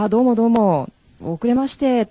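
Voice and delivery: re-enacted latecomer's hello; apologetic arrival greeting. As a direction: breeze in with polite apologies. Acted greeting on arriving late.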